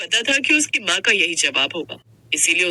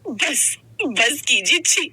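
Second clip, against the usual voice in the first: disgusted; 3 semitones higher, slower than usual. Acted. Wife disgusted by husband.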